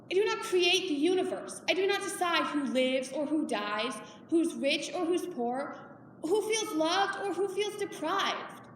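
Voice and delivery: firm, forceful protest; emphatic self-defence. Acted. Mother refusing blame from her daughter, emphatic. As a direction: push each phrase out, measured and insistent. Acted confrontation with daughter Nora.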